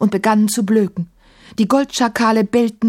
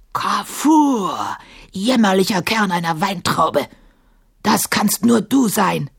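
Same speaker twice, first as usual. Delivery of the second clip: drawn-out, menacing giant's bellow; bellowing djinn. A narrator's reading. Sahim insulting the tiny djinn Kafur, bellowing. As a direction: bellow the name long, then spit the insult. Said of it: "gröhlte Sahim".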